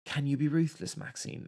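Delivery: drawled Southern take on "Can you be ruthless, Maxine?"; Southern accent. Retold or imitated. Reviewer mimicking the Southern actress, fading to a breath. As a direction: redo the line in a thick Southern accent. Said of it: "super Southern accent".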